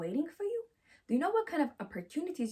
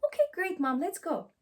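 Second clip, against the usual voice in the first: higher, bright eager reply; eager child; 6 semitones higher than usual. Acted. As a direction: chirp it like a keen kid. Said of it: "they will support me".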